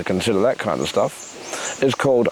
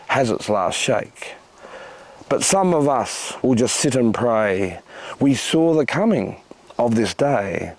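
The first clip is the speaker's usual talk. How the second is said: slow, solemn poet's recital; poem recitation; slower than usual. Acted. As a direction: deliver each line like a prophecy. Recites a doom-and-redemption poem.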